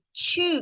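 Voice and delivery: teacher modelling the falling tone of ชื่อ; high falling model. Shown as a demonstration. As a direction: start ชื่อ high and let it fall. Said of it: "Repeat after me".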